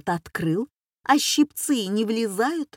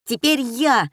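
a higher, louder eager cry; schoolboy shout; 4 semitones higher, 4 dB louder than usual. Acted. Schoolboy cries out demanding his turn, higher and louder. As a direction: claim your turn out loud. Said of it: "закричал гимназист".

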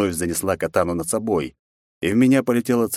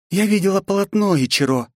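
cold; 12 semitones higher than usual. A narrator's reading. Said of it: "холодно произнесла Настя".

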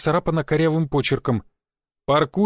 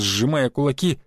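plain reading voice

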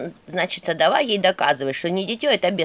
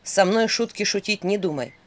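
threatening shout; 4 dB louder than usual. Acted. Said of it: "страшным голосом закричал Филин".

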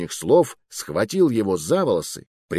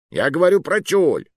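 higher and louder, exasperated; indignant; 7 semitones higher, 5 dB louder than usual. Acted. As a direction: insist on the word "тюль" in outrage. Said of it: "возмутился Джузеппе".

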